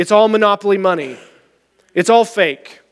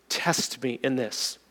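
hushed voice of God; 8 semitones lower, 15 dB quieter, slower than usual. Retold or imitated. Hearing the Lord speak.

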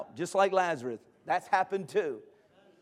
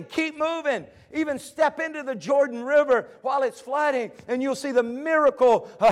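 urgent sermon exhortation; driving pulpit delivery with punched commands; rousing preaching; 5 semitones higher, 5 dB louder than usual. Real, not acted. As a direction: urge the congregation onward. Preaching at full force again.

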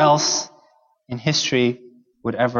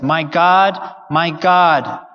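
raised, louder voice imitating Jesus' cry; retold loud cry; 2 semitones higher, 4 dB louder, much slower than usual. Preacher quotes Jesus breaking at his death, mildly raised cry. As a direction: cry it out with restraint, as a preacher quoting. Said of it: "he yells this loud cry".

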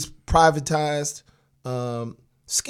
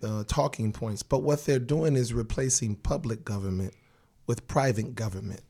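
lost voice, raspy and strained; hoarse voice; 2 semitones lower than usual. Real, not acted. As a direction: talk with a shouted-out, hoarse voice. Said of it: "I have lost my voice".

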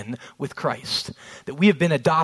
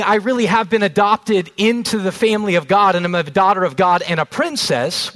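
proud daughter; 3 semitones higher, 5 dB louder than usual. Retold or imitated. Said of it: "if she's saying".

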